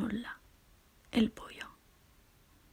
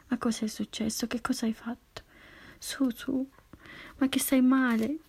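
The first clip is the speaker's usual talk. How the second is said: worried exclamation; 3 semitones higher than usual. Acted. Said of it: "esclamò Anna tutta preoccupata".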